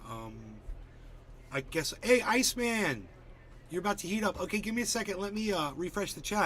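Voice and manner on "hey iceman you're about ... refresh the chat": much higher, louder hype shout-out; excited greeting. Real, not acted. Streamer welcoming Iceman into chat, higher and louder. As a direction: hype up the viewer as he arrives.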